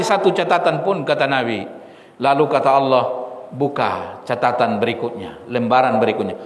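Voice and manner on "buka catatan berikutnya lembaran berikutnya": low, soft instruction; gentle command. Retold or imitated. Allah asks His servant to open the next page, gently. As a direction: quietly tell him to turn the page. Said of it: "kata-kata yang sangat lembut dan penuh kasih sayang".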